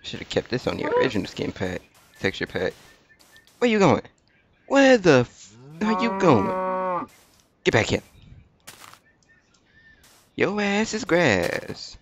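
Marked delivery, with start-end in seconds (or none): 3.6-8.0 loud high chase yell; high calling out. Real, not acted. Chasing fleeing animal. 10.3-12.0 mock threat. Threat to animal.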